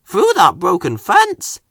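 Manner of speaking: fireman. Acted. Fireman explaining to the driver, lightly voiced. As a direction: point out the fence. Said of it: "added the fireman".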